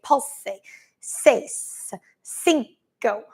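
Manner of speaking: lightly mimicked class countdown; a hint of a barking Pilates teacher; imitating Pilates instructor. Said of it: "says it like that".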